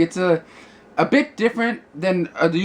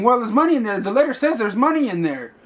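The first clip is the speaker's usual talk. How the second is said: lightly voiced kid insisting, higher; kid's protest; 5 semitones higher than usual. Blind kid argues with the man over the money, mock protest. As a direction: argue back like an indignant kid, lightly acted.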